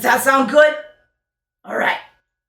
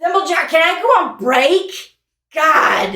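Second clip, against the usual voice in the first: bored complaint; 8 semitones higher, 4 dB louder than usual. Acted. Doll whines to Thimblejack.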